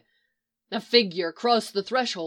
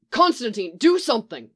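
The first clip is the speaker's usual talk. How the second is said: imploring; 3 dB louder than usual. Acted. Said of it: "Wally implored".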